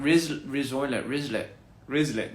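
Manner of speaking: slowly trying out rizoilet and rislet; slow made-up word. Shown as a demonstration. Inventing a word for chat, slowly. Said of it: "that sounds like a piglet".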